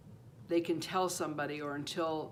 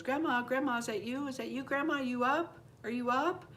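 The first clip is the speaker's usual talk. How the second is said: put-on high, insistent child's voice; imitated child, pitched up and questioning; little girl calling; 6 semitones higher than usual. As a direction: call out like a little girl checking who is awake. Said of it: "she said she was calling".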